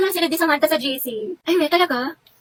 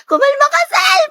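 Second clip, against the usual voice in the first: high, drawn-out shriek; excited squealing; 10 semitones higher than usual. Acted. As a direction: shriek in a giddy panic. Squealing over phone notification. (matinis na tiling kinikilig)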